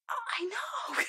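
very high, breathy squealed agreement; excited squeal. Retold or imitated. Fan agreeing with her friend about the gift, squealing. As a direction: squeal it, drawn out and overcome.

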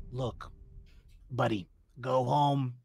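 low, soft dismissal; subdued, steady send-off; calm dealer. Acted. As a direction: let the loser down quietly, with pauses. Dealer sends loser home.

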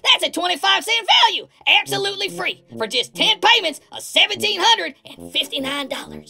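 pushy infomercial pitch; hard sell ad. Acted.

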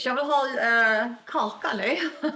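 slow, sing-song Swedish ordering cake; playful Swedish. Pretend. Trying on a Swedish dress, she orders cake in playful Swedish. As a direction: savour the Swedish words like a café order. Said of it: "It's so Swedish".

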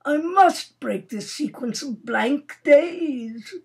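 lightly voiced grumbling Major; moody. Major complaining of blank hunting days, moody. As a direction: air a grievance, stressing key words. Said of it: "said the Major moodily".

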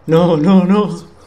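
loud high frantic no, no, no; alarmed shouting at the storm; panicked no. Acted. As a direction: cry out in panic.

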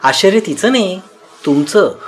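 acted indignant wife; reproachful astonishment. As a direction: take him to task, incredulous. Wife reproaches husband for laughing.

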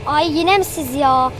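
slow, mock-girlish greeting; a hint of a prissy girl; girly voice. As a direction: put on a lightly girly voice. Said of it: "Kız gibi konuşuyorum lan yine".

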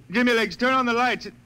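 pleading, rising panic. Acted. Blinded crewman begs the chief for lights. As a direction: call for the lights, scared.

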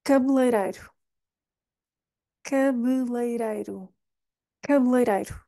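Cabeleireiro said carefully, one syllable at a time; model pronunciation. Shown as a demonstration. Teacher modelling the hardest word, Cabeleireiro. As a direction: say Cabeleireiro clearly. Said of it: "Como é que vocês vão pronunciá-la".

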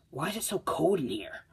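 acted bewilderment; puzzled complaint. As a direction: wonder aloud at a sudden chill. Endeavor puzzled by the chill.

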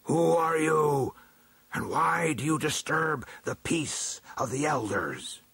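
put-on high, slow, imperious old dwarf; chief elder calling out. A narrator's reading. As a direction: call out a stately challenge from the throne. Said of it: "The dwarf on the larger throne called out".

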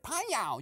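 mimicking the crack of a slap; imitated smack. Eavesdropper imitating the slap he just heard, imitated smack. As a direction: sound out the smack like a sound effect. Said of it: "you should have heard it".

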